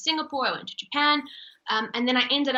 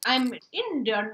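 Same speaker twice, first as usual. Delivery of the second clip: slowed, put-on Indian accent; slower than usual. Shown as a demonstration. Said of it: "suddenly I start speaking".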